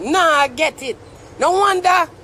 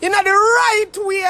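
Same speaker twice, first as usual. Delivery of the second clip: worked-up, higher and insistent; emotional; 4 semitones higher than usual. Real, not acted. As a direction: press the point with rising urgency. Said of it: "I'm emotional about the words".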